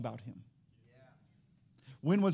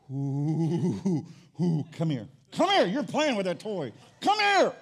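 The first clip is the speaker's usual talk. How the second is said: mock yelling parent; 4 dB louder, slower than usual. Parent calling child away from toy, mock yelling. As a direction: call the kid over, louder each time.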